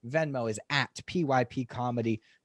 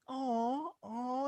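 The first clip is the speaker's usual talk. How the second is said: mock sympathetic coo; 10 semitones higher, 9 dB quieter than usual. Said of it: "this woman goes".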